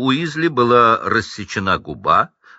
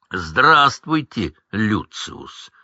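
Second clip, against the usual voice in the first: cold greeting; much slower than usual. Acted. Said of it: "Холодно приветствовал".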